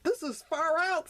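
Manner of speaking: high, excited exclaim. Acted. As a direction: burst out, thrilled. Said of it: "Splash exclaimed".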